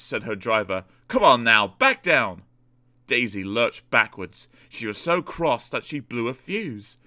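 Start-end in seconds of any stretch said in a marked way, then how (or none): 1.1-2.4 loud, brisk command at normal pitch; firm order. Acted. Driver ordering Daisy back to the van, firm. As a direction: order the engine back, raising your volume.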